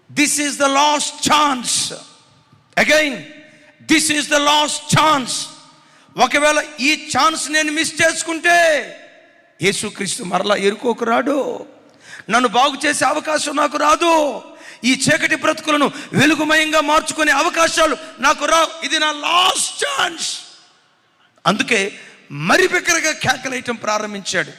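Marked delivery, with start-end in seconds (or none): 0.1-5.3 desperate plea. Acted. 6.2-20.4 high, loud cry of a last chance; desperate shout. Acted.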